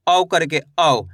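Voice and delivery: औ sounded as an open "au" glide; demonstrating the au vowel. Shown as a demonstration. Teacher shows learners the vowel, औ said as a clear "au". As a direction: say औ as "au", gliding from a to u. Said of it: "औ की मात्रा का उच्चारण कैसे करेंगे".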